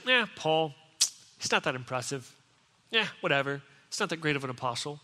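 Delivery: low, softened, shrugging put-down; mock dismissive critics. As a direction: imitate unimpressed sceptics waving him off. Mimicking Paul's unimpressed critics in Corinth.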